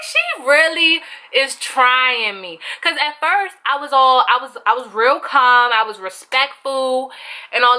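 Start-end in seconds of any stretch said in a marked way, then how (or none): 0.0-2.6 drawn-out, disbelieving mutter; slow disbelief. Retold or imitated. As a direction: let the disbelief sink in slowly. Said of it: "So I'm like".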